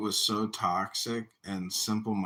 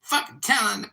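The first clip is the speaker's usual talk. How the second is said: high, loud imitated screaming rant; mock yelling; 13 semitones higher, 5 dB louder, faster than usual. Retelling a woman yelling at Joe B, mock screaming. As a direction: shriek it like an enraged online troll. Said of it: "yelling at Joe B and saying".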